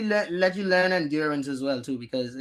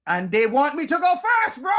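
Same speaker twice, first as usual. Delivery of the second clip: incredulous; 12 semitones higher, 6 dB louder than usual. Real, not acted. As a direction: stretch it out in disbelief. Disbelief at going first.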